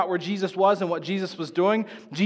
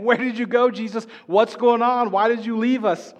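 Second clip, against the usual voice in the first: higher, louder accusing questions, half-acted; hostile demand; 4 semitones higher, 4 dB louder than usual. Disciples confront Jesus for leaving them, mock hostile. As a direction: confront him like he ditched you. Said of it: "he's got this hostility saying".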